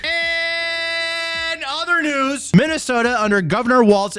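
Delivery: news anchor voice. Pretend. Mock news anchor segue.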